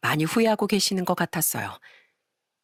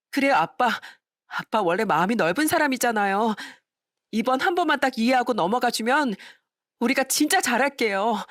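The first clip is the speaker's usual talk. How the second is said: put-on higher, wheedling young woman; coaxing daughter; 5 semitones higher than usual. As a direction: flatter father into forgiving. Daughter coaxes father.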